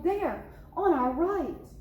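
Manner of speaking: squeal. Acted.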